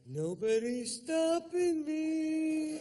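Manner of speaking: very high, loud, slow declaration; hammed-up victorious shout on the gangplank; triumphant boast. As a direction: proclaim it like a conquering hero. Triumphant walk onto yacht.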